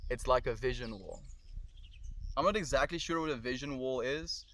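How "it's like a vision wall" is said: English with a light South African accent. Shown as a demonstration. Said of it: "South African accent".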